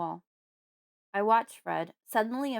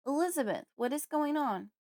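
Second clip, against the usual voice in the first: higher calling question to the kitchen; 7 semitones higher than usual. A narrator's reading. Father calling again to his silent wife, worried call. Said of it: "he calls out again".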